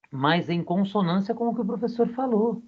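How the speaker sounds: half-whispered, confiding remark; whispered aside. Real, not acted. Aside about parents backing teacher.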